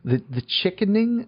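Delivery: high disbelieving question; incredulous. Real, not acted. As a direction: repeat it in disbelief. Incredulous repeat of title.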